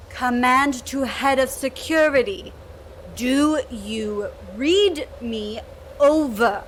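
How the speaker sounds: slow, crackly radio transmission; crackly military radio. Acted. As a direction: speak through a crackling radio. Repeats call over radio.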